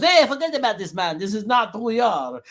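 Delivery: put-on high-pitched, clumsy Jamaican accent; hammed-up Jamaican movie-quote accent; bad Jamaican accent. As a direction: imitate a Jamaican bobsledder, badly. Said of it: "that's the worst Jamaican accent in the world".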